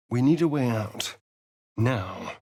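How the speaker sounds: urgent whisper. Acted. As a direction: hiss it under your breath.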